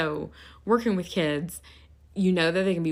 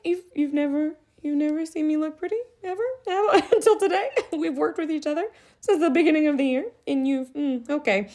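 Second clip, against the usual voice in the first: laughing mock outrage; 9 semitones higher, 3 dB louder than usual. Mock indignant teacher, laughing.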